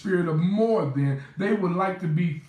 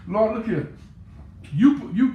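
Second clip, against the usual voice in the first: higher, louder urgent appeal to the Lord; urgent plea; 4 semitones higher, 4 dB louder than usual. Acted. Pastor praying his frustration to God, loud and urgent. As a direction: grab God's attention, stammering. Preacher voicing pastor's prayer.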